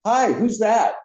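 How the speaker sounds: high singsong nosy-girl imitation. Nosy coworker calls into the next stall, high prying voice. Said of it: "the girl in there was very nosy".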